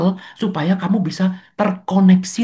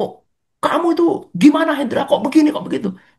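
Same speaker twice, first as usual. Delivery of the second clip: heated, loud, pitched-up scolding; 8 semitones higher than usual. Speaker retells what they blurted while teaching Pak Hendra: retelling loud scolding. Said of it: "Tadi saya ngomongnya keras banget".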